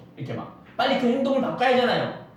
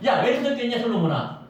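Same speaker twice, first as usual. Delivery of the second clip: God questioning back; 4 semitones higher than usual. Acted. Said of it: "하나님도 그걸 되물어보는 거예요".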